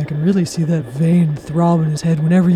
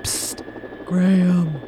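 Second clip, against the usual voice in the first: breathy secret psst into the mic; giggly prank whisper; 6 dB quieter, much slower than usual. Acted. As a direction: whisper so the host can't hear. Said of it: "Why are you whispering into the mic?".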